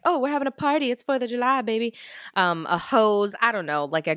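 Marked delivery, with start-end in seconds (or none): 0.0-1.9 mock party voice. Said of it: "all stuff that says, like".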